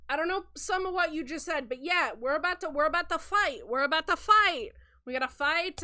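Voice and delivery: loud, insistent rallying; pumped up for a fight; fired-up henchman. Acted. Shrimp agrees, rallying for a fight.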